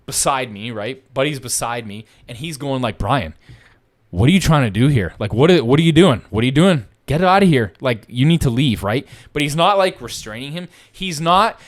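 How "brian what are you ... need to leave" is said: a cop warning an angry man off, in a raised voice; cop telling him off. Retold or imitated. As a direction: order him out of here, firm and raised. Cop ordering the guy to leave.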